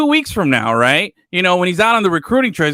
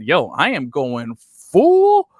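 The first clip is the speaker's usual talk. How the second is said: slow, higher put-on Southern accent; mock Southern drawl; 8 semitones higher, slower than usual. Host mocking the coach's new Southern accent. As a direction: stretch "full full" like a Southern good ol' boy. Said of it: "homeboy just said".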